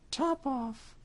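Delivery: high cat voice, said coolly. Acted. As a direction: toss the name off coolly. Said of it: "the cat said quite coolly".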